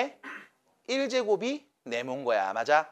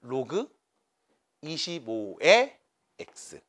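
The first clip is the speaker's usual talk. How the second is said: 로그, pause, 이십오의 drawn out and raised, pause, X dropped low; notation read aloud in parts; 3 semitones lower, much slower than usual. Shown as a demonstration. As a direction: read 로그 / 이십오의 / X slowly, piece by piece. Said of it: "이렇게 읽어요".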